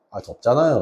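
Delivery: lazy student whine. Retold or imitated. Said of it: "이러면서".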